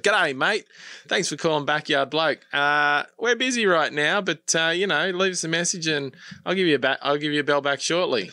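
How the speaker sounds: loud, high, hammed-up bogan Aussie; full-blood bogan Australian accent. Shown as a demonstration. Business owner recording a cheeky voicemail for customers, full bogan Australian accent. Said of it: "full blood Bogan Australian accent".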